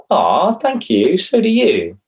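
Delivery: hammed-up sugary reply; mock gushing thanks. Shown as a demonstration. Showing the wrong way to take compliments, gushing. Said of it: "Don't say".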